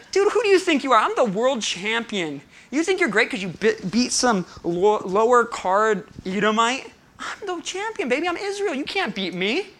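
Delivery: high, loud pre-fight throwdown; wrestling trash talk. Acted. Israel's king taunts his challenger before a fight, wrestling trash talk. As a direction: boast like an old-school WWF champion. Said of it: "old school W W F pre-fight throwdown of words".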